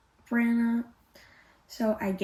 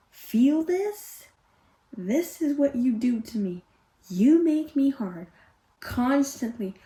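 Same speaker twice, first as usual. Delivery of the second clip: hammed-up, louder declaration, phrase by phrase; mock-dramatic quote; 4 dB louder than usual. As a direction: imitate a romance hero, punching each short phrase. Mock-reading the hero's crude line.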